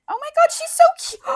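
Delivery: excited whisper. Real, not acted. Gushing over a photo.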